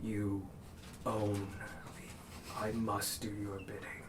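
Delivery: hushed servile steed; whispered creature voice. Acted. GM voices the nightmare horse.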